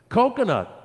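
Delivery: put-on high, loud excited child's shout. A narrator's reading. Child guesses the tree's smell, high excited shout. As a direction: call it out eagerly. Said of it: "one shouted".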